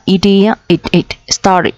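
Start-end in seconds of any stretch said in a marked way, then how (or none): 1.3-1.7 "started" with -ed as a separate "it" syllable; teacher's model of "started", two syllables ending in "it". Shown as a demonstration. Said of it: "đuôi it nha các bạn".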